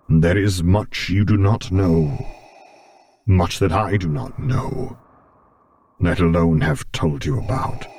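put-on character voice, weighty and guarded; a guarded father figure, voiced apart from the narration; Vader, guarded. A narrator's reading. Vader admits to Luke how much is untold, guarded character voice.

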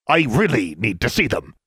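posing as a man. A narrator's reading. Disguised Alexandra presses the witch.

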